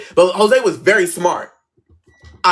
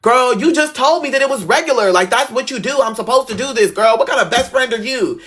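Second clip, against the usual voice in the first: high-pitched indignant retort to a friend; mock indignant; 6 semitones higher than usual. Girl retelling how she confronted her best friend, mock indignant. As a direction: act out calling a best friend out.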